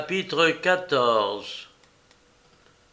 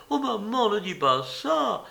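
sobbing; 8 semitones higher than usual. A narrator's reading. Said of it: "sanglota l'inconsolable Athalie".

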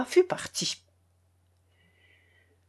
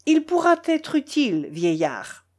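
great gentleness; 6 semitones higher than usual. Acted. Foma giving money to the old servant, very gently. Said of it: "fit Foma avec une grande douceur".

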